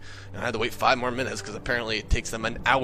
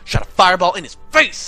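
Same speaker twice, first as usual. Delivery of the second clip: indignant accusation building louder; pissed-off friend, retold; 4 semitones higher, 4 dB louder than usual. Jimmy catches the gamer poisoning soup, mock pissed off. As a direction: act out an outraged friend confronting you. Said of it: "and he was pissed".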